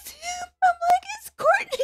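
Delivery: a fan calls his fiancée during the cameo; urgent excited call. Retold or imitated. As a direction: grab your partner's attention in excitement. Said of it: "freaked out".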